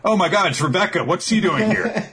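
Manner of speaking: put-on high, quick girlish gasp of surprise; lightly voiced young chef spotting a friend; squeaky surprised girl.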